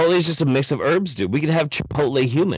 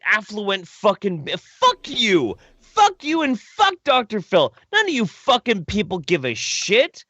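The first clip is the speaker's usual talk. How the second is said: unhinged talk-show rant against the elite; Alex Jones rant; 5 semitones higher than usual. Pretend. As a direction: rail at them like a conspiracy radio host. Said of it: "Is he going Alex Jones on us?".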